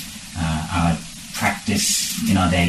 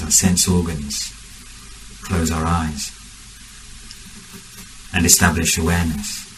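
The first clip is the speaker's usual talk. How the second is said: measured meditation guidance with long pauses; guided meditation. Real, not acted. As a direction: guide the group unhurriedly, phrase by phrase.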